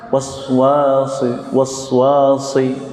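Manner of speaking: was wasi stuttered hesitantly; hesitant wrong. Shown as a demonstration. Teacher showing the hesitant wrong reading.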